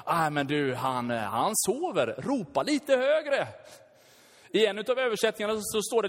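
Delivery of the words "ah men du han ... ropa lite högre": 3 needle the prophets with mock concern; 4 hammed-up Elijah taunting the prophets.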